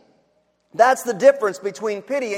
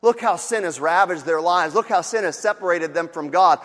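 distant pity; 5 semitones lower than usual. Retold or imitated. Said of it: "look down and say".

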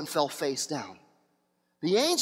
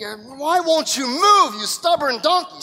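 slow, louder, exasperated shout at the donkey; angry rider; 5 semitones higher, 5 dB louder, slower than usual. Acted. Balaam yelling at his stalled donkey, slow and angry. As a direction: bark at a stubborn animal.

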